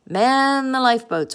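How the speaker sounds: high storybook emergency order. A narrator's reading. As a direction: call the crew to action. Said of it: "ordered Jonathan".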